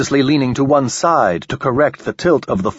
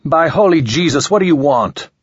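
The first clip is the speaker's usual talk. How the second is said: frightened; 6 semitones higher, 4 dB louder than usual. Acted. Ramon panics at the alien.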